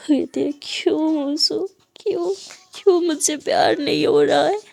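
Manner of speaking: loud, tearful, pleading questions; desperate crying why; crying anguish. Acted. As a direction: ask why through sobs.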